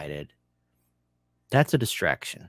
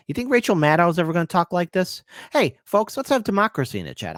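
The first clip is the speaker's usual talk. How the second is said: higher, louder, hyped-up call to the chat; excited call-out; 8 semitones higher, 4 dB louder than usual. Real, not acted. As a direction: pump up the viewers.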